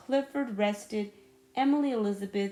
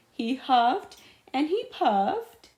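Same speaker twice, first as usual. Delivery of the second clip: slow, swelling louder narration; building up; 4 semitones higher, 6 dB louder than usual. A narrator's reading. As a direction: draw it out before the sneeze. Build-up before sneeze.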